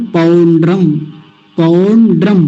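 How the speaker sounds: पौंड्रम in two parts, paun-dram, with a wide au; careful word demo. Shown as a demonstration. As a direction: say पौंड्रम clearly for repetition. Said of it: "तो क्या है?". (स्पष्ट उच्चारण)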